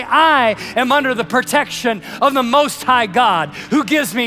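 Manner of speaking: loud, slow proclamation of faith; proclaiming. Shown as a demonstration. Preacher urging the congregation to declare aloud, slow and loud. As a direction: declare it boldly, chest out. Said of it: "and say".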